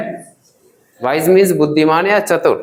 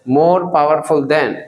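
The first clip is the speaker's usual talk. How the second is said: more powerful than stretched out very slowly, more stressed; slow drill; 3 semitones lower, much slower than usual. Shown as a demonstration. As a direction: spell it out word by word for learners. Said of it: "बोलो".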